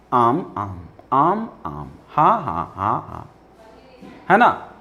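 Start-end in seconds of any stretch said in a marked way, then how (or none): 0.1-3.3 softer, lower repeated yeses. Shown as a demonstration. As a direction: murmur agreement softly. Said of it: "और संस्कृत में". (धीमे हाँ हाँ)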